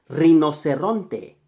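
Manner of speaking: rinoceronte said slowly, rolled r, every syllable clear; teacher modelling rinoceronte slowly; slow Spanish model word. Shown as a demonstration. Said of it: "it's really close".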